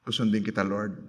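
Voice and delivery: quietly bargaining with God; soft pleading prayer. Retold or imitated. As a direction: murmur the promise like a timid prayer. Hindi yung, wrong prayer attitude.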